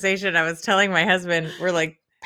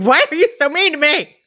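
whiny husband; 8 semitones higher, 3 dB louder than usual. Retold or imitated. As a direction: plead like a hurt husband. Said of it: "He's like".

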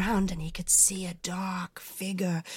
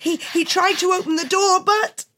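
breathless; 9 semitones higher than usual. A narrator's reading. Breathless narration.

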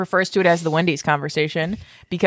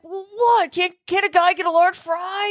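mock defensive husband; 10 semitones higher than usual. Imitating husband's defensive reply.

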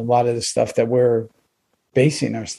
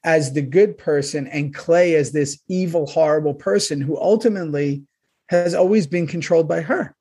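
indignant; 3 semitones higher than usual. Real, not acted. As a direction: demand it in disbelief. Ranting about Gemma's portrayal.

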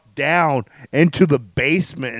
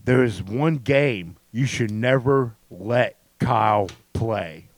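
quiz host voice; 5 semitones lower than usual. Acted. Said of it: "Say it again, Nate".

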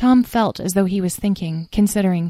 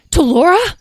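shouted name, much higher and louder; yell; 12 semitones higher, 9 dB louder than usual. Acted. Seeing Talora in the vision, Tom yells her name. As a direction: call out desperately to her. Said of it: "yelled Tom".

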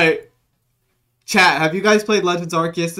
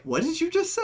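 high, softer imitation of a startled listener; mock incredulous; 13 semitones higher, 6 dB quieter than usual. Retelling B's reaction to the slip, mock incredulous. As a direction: quote their disbelief in a high voice. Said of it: "and B was like".

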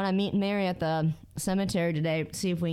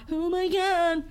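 slow, high fearful oh my God; drawn-out frightened whimper; slow scared gasp; 10 semitones higher, much slower than usual. Retold or imitated. Retold fear in car.

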